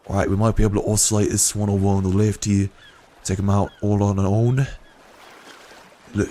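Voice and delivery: mock Australian wildlife-show accent; a loose Australian croc-hunter voice. Narrating the game like an Australian hunter, mock accent. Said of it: "I was going for an Australian accent there".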